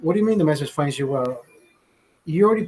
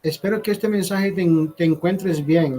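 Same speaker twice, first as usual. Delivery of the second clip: a slightly raised, slowed mock translation; mock Spanish version; 2 semitones higher than usual. Mocking the phrase in Spanish to Andrea, slowed. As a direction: recite it as if it sounds absurd. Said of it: "things in English that I wouldn't fucking say in Spanish".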